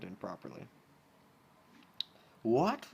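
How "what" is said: sharp high shocked what; exclaimed. Acted. Rarity reacts to Rainbow's confession, shocked. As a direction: gasp it out in shock. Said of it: "Rarity exclaimed".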